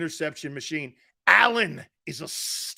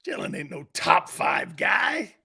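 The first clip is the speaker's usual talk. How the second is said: blunt shout. Real, not acted. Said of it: "I'm the monster guy".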